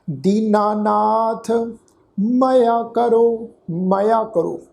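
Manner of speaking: very slow, stretched verse reading; scripture recitation. Shown as a demonstration. Teacher models the next phrase, slow recitation. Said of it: "ਪਾਠ ਉਚਾਰਨ ਕਰਾਂਗੇ".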